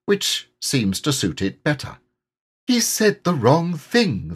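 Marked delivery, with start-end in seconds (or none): 2.7-4.3 higher, slow worried thought; mildly anxious higher voice; anxious Piglet. A narrator's reading. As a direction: fret under the breath. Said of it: "thought Piglet anxiously".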